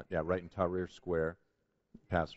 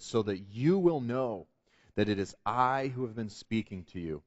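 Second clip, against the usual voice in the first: mildly stern, deliberate retold pronouncement. Taxi driver retells Jesus' words from his dream, mildly stern. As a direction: quote a solemn message with measured emphasis and pauses. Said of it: "he looked at me very sternly".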